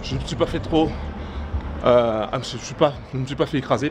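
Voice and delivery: out of breath from the uphill walk; breathless, catching air between words. Real, not acted. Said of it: "Je suis essoufflé".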